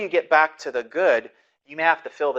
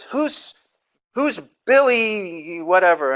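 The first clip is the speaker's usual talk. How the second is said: retold calling out; 6 semitones higher, 6 dB louder, much slower than usual. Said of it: "he starts calling out my kids by name".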